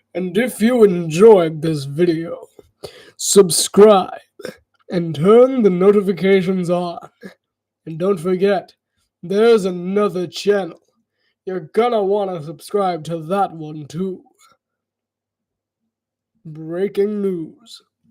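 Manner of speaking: big, booming, cool broadcast-style announcer voice. Streamer asks viewers to like and subscribe; deep booming cool voice. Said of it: "I have to do that in the cool voice".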